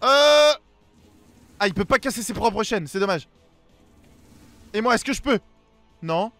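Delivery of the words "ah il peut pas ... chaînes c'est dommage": ordinary talk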